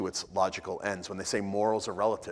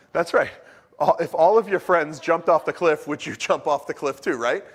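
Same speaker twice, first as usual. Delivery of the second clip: raised, higher mock-parent scolding; a parent scolding their teen, pitched up and loud; exasperated parent; 6 semitones higher, 7 dB louder than usual. Parent asking the classic question.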